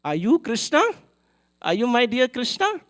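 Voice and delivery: excited disbelief. Retold or imitated. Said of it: "and she was like".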